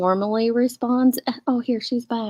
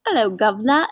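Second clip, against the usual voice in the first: mock British accent. Shown as a demonstration. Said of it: "I'll start with".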